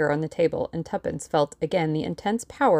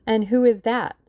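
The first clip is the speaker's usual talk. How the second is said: higher, louder puzzled question; curious and mystified; 6 semitones higher, 5 dB louder than usual. A narrator's reading. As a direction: ask it with raised pitch, baffled.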